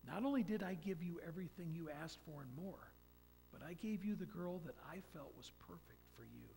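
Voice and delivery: voice of God. Retold or imitated. God answering the man's prayer, soft calm reply. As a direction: answer gently as God to a son. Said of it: "He goes".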